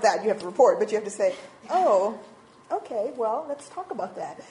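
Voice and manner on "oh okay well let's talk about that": composed, non-reacting reply that softens at the end; poker face. Counselor answering someone who reports abuse, poker-faced. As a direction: keep it neutral, give nothing away. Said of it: "talking about poker faces".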